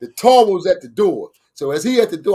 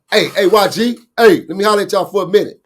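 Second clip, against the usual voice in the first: loud, quick call across the room; fast friendly holler to stop them; 2 semitones higher, 5 dB louder than usual. Retold or imitated. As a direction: hail them before they leave the door. Calling after young men leaving.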